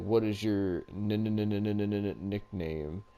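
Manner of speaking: lightly mocking stutter on the n of nickname. Wrestler with a stutter gimmick asks his rival's nickname, mock stutter. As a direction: stammer the n a few times before nickname. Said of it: "Matt Morgan was, like, stuttering".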